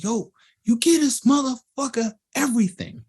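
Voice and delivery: high-pitched mock outrage; exasperated complaint. Rapper complaining the producer favors another artist, exasperated. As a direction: whine it as the passed-over rapper.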